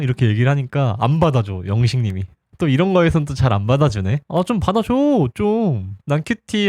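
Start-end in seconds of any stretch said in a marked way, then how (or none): 4.3-6.7 whiny aegyo plea. Retold or imitated. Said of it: "하는데".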